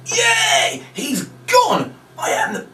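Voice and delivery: very high, hammed-up squeals of glee; squeaky mock bragging; gloating victory cry. Shown as a demonstration. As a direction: boast like the world's best magician. Fake magician gloating at kids.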